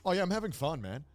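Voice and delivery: lightly put-on laid-back American accent. Dancer speaking English backstage, mock American accent. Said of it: "the most American-ass accent was like".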